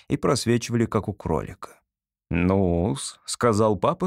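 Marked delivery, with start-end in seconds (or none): 2.3-3.2 low, drawn-out opener; strange smile. Acted. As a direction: begin low with an odd, knowing smile. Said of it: "странно улыбаясь".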